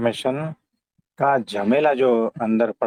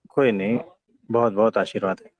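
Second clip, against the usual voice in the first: calm gentle wise voice; 4 semitones lower, faster than usual. Real, not acted. Guru gives blessing to disciple.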